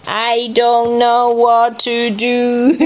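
slow, drawn-out mock despair; hammed-up storybook dismay; helpless character. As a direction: stretch each word in acted helplessness.

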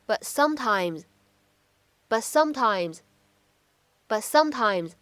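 "but sometimes" with the t unreleased, slowly; incomplete plosion. Shown as a demonstration. Teacher drilling incomplete plosion slowly. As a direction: hold the t of "but", don't release it. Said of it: "不完全爆破的情况".

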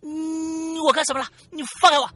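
high, loud, whiny panicked yelling; panicked protest. Retold or imitated. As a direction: squeal to be let go. Driver grabbed, protesting.

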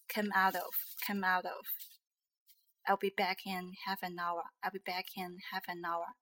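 "come out of" and "I'll be back in half an hour" run together; linked sounds. Shown as a demonstration. Teacher demonstrating liaison, words linked in "come out of", "half an hour". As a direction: join each final consonant to the next vowel in "come out of", "half an hour". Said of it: "要学的是那个连音问题".

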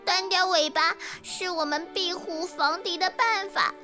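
high, tearful creature voice, rushing at end; sniffling. Acted. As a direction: explain through sniffles, then hurry upset. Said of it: "小壁虎吸吸鼻子说". (吸着鼻子哭诉)

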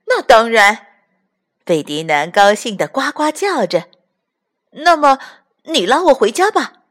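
loud, high happy reply; happy croak. Acted. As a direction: croak it out gladly.

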